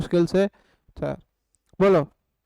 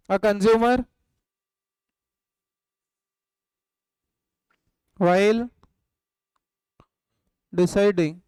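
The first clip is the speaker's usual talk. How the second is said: word by word with long gaps for writing; slow dictation; much slower than usual. Shown as a demonstration. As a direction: dictate slowly, one word at a time. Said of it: "लिखो". (छात्रों को धीरे-धीरे लिखवाते हुए)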